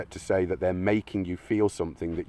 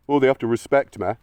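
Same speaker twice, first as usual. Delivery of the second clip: mocking whine; 5 semitones higher, 7 dB louder than usual. Mocking an imagined opponent.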